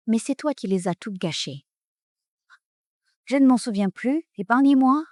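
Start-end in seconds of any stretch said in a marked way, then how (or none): 3.3-5.0 mocking plea. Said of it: "heiress mimics the plea".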